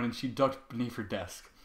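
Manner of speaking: plain reading voice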